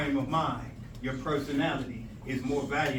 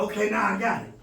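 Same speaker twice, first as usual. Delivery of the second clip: pleased recall; 4 semitones higher, 6 dB louder than usual. Acted. Acted moment of recall.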